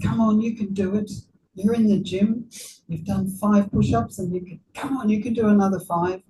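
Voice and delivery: quick, upbeat coach pep talk; encouraging coach. Retold or imitated. Gym coach urging a tired client on, fast and encouraging. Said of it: "A coach has a very nice attitude".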